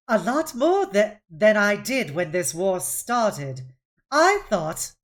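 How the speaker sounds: defensive reply. Acted. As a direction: push back at the commander. Jafinier answers.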